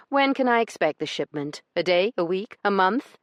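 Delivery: high, loud demanding lady's voice. Acted. Io demanding a date from Branson, high and insistent. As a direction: press him hard for an answer. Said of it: "she demanded".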